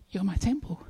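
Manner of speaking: hushed whisper of Jesus. Acted. Jesus whispering to the believer, hushed. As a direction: breathe it as a tender whisper.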